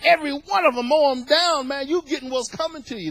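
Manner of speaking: mock-angry through gritted teeth; a touch of vengeful anger, voice lifted at the start; gritting-teeth mad. Preacher acting out how people would react to the wicked, gritting-teeth mad. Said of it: "We'd be gritting teeth mad".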